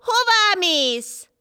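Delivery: high, loud, slow call after her. A narrator's reading. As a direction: stretch the question up to someone flying away. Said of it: "Teventej meg kiabált utána".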